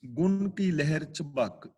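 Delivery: very slow, measured scripture recital with long pauses; slow verse recitation. Shown as a demonstration. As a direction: intone each phrase apart, reverently. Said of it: "ਅਗਲਾ ਬਚਨ".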